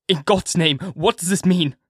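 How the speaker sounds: a husband waking to horror, crying out in fear; frantic cry. A narrator's reading. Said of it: "Harker cried out".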